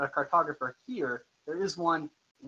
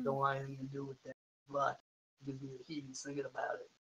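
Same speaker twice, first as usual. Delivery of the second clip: put-on quiet, quick gravelly old man; 12 dB quieter, faster than usual. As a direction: mutter it like a spooked old man. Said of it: "Repeat the gravelly old man voice".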